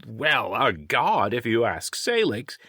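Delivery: high, teasing creature voice; high-pitched cheeky taunt. A narrator's reading. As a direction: needle them as the high-voiced sidekick. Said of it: "Wish taunted".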